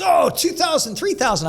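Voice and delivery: put-on South African accent. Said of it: "he's got that Australian or South African accent".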